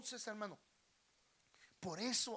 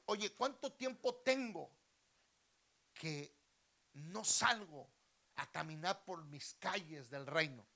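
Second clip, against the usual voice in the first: raised, louder voice for a king; lightly voiced king, projecting out; storybook king; 7 dB louder than usual. King asking his attendant about his walks, projected and commanding.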